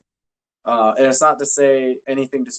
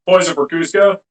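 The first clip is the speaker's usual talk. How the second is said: Kronk impression; 4 semitones higher, 4 dB louder than usual. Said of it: "It's better when it's Kronk".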